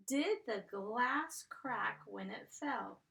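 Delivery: slowed down, each word spaced; slow read-aloud to students; slow dictation. Shown as a demonstration. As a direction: read it slowly for the kids to follow. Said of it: "there's that blend".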